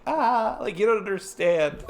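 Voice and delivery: retold fanboy excitement. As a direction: gush like a starstruck fan, voice shooting up. Retelling his fan reaction to impression.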